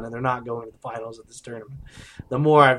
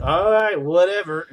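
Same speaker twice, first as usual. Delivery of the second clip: imitated indifference; 5 semitones higher, 7 dB louder than usual. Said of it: "he was just like".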